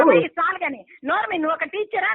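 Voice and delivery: loud, cutting rebuke; real angry shouting. Real, not acted. Silencing someone who asked why she shouts, angry. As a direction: shout the other person down. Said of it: "మీకెందుకు అరుస్తున్నారు".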